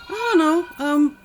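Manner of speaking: laughing through the words, high and fast. Real, not acted. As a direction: laugh it out quickly. Laughs while reading the option.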